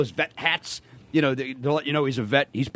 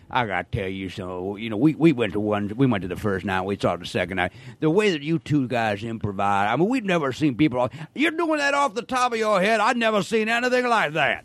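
a hint of a gushing islander; island fan; 5 semitones lower than usual. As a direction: fan praising the improv, lightly voiced. Imitating island fans' praise.

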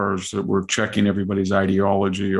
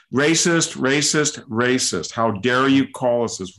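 higher, slow mock outrage; mock indignant; 4 semitones higher than usual. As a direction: parody the cry of racist. Mock Chinese response, repeated.

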